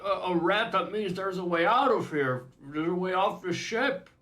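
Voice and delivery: high, loud, excited Scottish-ish dwarf; dwarf realising there's a way off the ship, excitedly. Retold or imitated. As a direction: gasp it out like a trapped prisoner spotting hope. Voicing the dwarf's excited thought.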